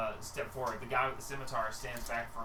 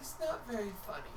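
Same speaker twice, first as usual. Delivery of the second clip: hurt mother; 7 semitones higher, 3 dB quieter than usual. Acted.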